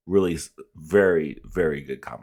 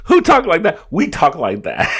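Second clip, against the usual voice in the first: shouted much higher, hamming up the meme line; loud meme echo; 12 semitones higher, 10 dB louder than usual. Pretend. Host shouting the viral meme line back, loud mock imitation. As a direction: belt it out like the meme, half laughing.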